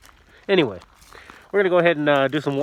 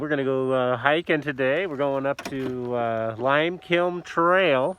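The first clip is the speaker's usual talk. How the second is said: muffled behind a mask; through a face mask. Real, not acted. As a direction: speak through a cloth mask. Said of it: "If you guys can hear me through this mask".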